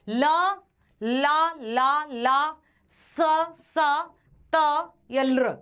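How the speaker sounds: ला and स drawn out clearly; sounding out letters. Shown as a demonstration. Teacher demonstrating dental sounds to students, clear. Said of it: "sounding out dental letters".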